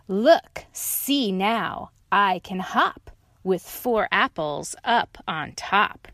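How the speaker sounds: loud excited look; excited dog. Acted. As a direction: call them to watch. Dog shows off.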